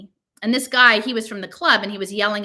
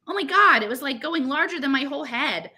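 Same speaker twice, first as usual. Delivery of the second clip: put-on a teen girl shrieking about her pimple; panicked outburst; 5 semitones higher than usual. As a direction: freak out over the lesion. Girl panicking over her lesion.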